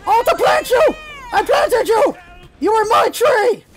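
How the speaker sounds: high, possessive crowing; gloating shout. Pretend. Gamer planting an enemy tree, gloating shout. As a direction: crow over a captured enemy.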